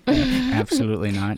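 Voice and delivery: high, laughing mock Canadian; Canadian accent. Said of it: "that's your Canadian accent".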